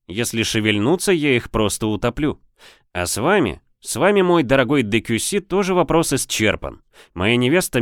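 a hint of a smug captain; confident corsair captain. Serov dictates terms.

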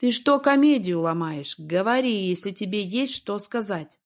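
ordinary delivery, nothing marked

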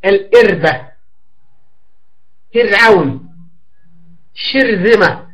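الإربة with a thin, light sakin r after the i; teacher giving model words with a light sakin r. Shown as a demonstration. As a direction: carefully sound the light r in فرعون and شرذمة. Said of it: "مثل مريم".

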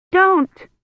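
sudden high, loud plea; panicked cry. A narrator's reading. Burning at the stake, panic.

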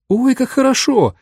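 high ringing little voice; tiny tinkling snowflake sprite. A narrator's reading. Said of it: "звенящий голосок бабушкиной помощницы".

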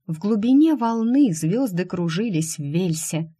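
ordinary delivery, nothing marked

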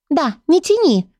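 high squeaky urging; squeaky little book. Acted. The tiny book urges Gerhard on, squeaky. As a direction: squeak impatiently.

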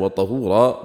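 وطهورا with a short "a" after ط, "tahura"; fatha vowel. Shown as a demonstration. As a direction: say وطهورا as "wa-tahura", not "tuhura". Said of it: "بالفتح". (وطهورا بفتح الطاء)

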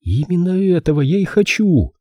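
put-on high-pitched composed girl; perfectly calm. A narrator's reading. Girl accepts the detective's warning, calm. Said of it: "сказала Филлис совершенно спокойно".

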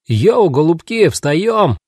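lively yelled reveille; hollered wake-up call. A narrator's reading. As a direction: holler to get everyone up through a door. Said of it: "заорал снаружи Кинг Джордж".

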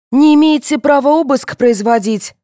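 high, loud protest; flustered indignation. A narrator's reading. Vera telling police they can't search her, indignant. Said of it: "покраснела Вера".

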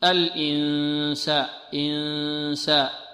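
slow, droned n in الإنساء; long level ghunnah before the s in إنساء; held nasal n. Shown as a demonstration. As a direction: stretch the hummed n of إنساء. Teacher demonstrates a held nasal n.

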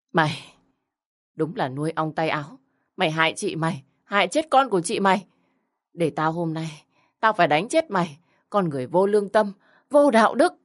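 a lightly voiced furious old grandmother; scolding angrily. Grandmother scolding the granddaughter she blames, angry tirade. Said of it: "tuôn ra một tràng mắng chửi".

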